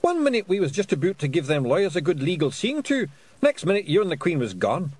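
high, loud rough Scottish pixie; indignant little Scottish warrior; Feegle voice. A narrator's reading. Feegle character voice.

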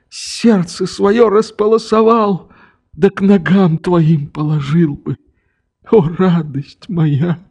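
put-on an old man pouring out his guilt; repentant old father. A narrator's reading. Father kneeling before his daughter, begging forgiveness.

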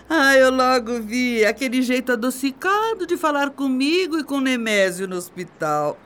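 usual speaking voice

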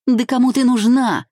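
scornful jab. Acted. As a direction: sneer it out at her rival. Spiteful rival mocking Vika.

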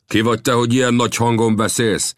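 disdainful, looking-down ask; scornful question. A narrator's reading. The Comanche leader scornfully questions Old Death. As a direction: belittle the old man. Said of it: "kérdezte az indián fitymáló hangon".

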